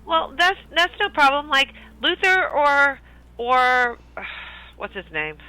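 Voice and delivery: high, friendly and chatty; bubbly young elf, way up high; cheerful elf voice. Acted. Calamar voice continues.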